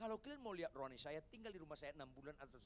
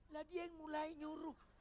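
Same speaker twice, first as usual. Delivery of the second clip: protesting husband; 11 semitones higher than usual. Acted.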